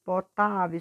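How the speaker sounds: "Potável" with TA punched; teacher marking TA in "Potável"; stressed strong syllable. Shown as a demonstration. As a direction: lean on the "tá" in "Potável". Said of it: "puxando mais a sílaba forte".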